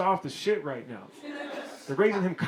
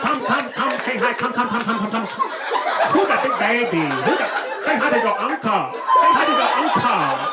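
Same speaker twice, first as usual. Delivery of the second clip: higher-pitched baby talk in a hammed-up Asian accent; mock Asian accent; 4 semitones higher, 5 dB louder than usual. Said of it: "the moment I do an Asian accent".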